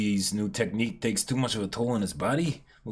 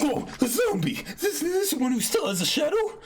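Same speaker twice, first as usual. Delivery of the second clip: surprised; 14 semitones higher than usual. Acted. Spotting a supposed zombie.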